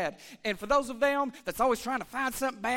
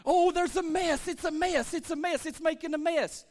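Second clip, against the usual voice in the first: lightly voiced fussy pessimist, first line higher; 4 semitones higher than usual. Pastor mocking the pessimist's complaint, mild whiny mock. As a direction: mimic a griping pessimist. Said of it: "the pessimist would say".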